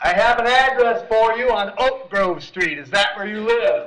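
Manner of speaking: loud, high-pitched shouting. Repeating a question to someone who said they cannot hear: yelling. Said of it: "I know, I'm yelling".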